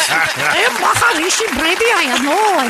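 put-on a weak, laughing stab at an Indian accent on Maharishi Brady; bad Indian accent. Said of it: "I can't do the accent very good".

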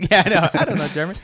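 hammed-up Italian accent, high and loud; Italian pizza man. Italian pizza man reading a customer's card, baffled. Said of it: "It's an Italian guy".

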